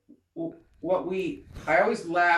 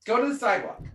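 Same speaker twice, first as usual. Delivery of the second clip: higher-pitched, hurried mock exasperation; impatient; 6 semitones higher, faster than usual. Driver late for the dentist to a llama, impatient. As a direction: shoo it along, playfully fed up. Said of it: "impatient with a llama".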